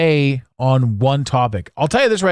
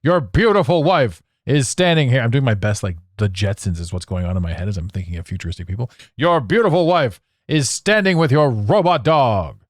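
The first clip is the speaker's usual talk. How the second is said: fifties TV announcer. Pretend. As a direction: sell it like a fifties futuristic TV ad. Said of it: "what people thought the future was in the fifties".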